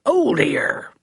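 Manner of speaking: hushed worried aside; dismayed whisper. Acted. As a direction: breathe it under the breath.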